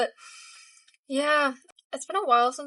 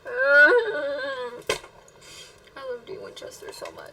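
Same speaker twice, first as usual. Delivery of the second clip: tearful whisper; 3 semitones higher than usual. Real, not acted. Viewer loving Dean Winchester so much, tearful whisper. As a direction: whisper it through tears. Tearful after emotional scene.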